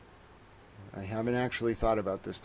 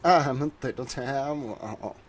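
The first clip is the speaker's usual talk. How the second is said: cutesy little voice; 3 semitones higher, 5 dB louder, slower than usual. Pretend. Cutesy self-description after a laugh.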